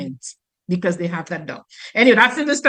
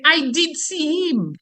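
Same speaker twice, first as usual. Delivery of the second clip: "I did see him" in a Creole voice, slow; Creole phrasing; 3 semitones higher, slower than usual. Shown as a demonstration. Teacher demonstrating Creole speech, slow Creole voice. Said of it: "Some would say".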